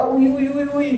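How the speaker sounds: mock pained squeals. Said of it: "मैं कहा".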